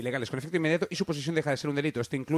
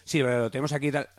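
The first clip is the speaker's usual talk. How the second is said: over walkie talkie; 4 dB louder than usual. Retold or imitated. Airport guard talking over walkie.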